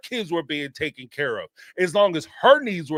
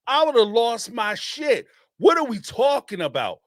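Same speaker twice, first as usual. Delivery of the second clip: a touch of New York edge; 4 semitones higher than usual. Real, not acted. Indignant rant with a touch of New York. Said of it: "sound a little New York there".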